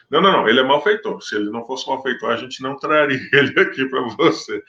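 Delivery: fast, brushing-off mock insistence; dismissive accusers. The accusers dismissing Pilate's question, mock impatient. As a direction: wave the question away, lightly hammed.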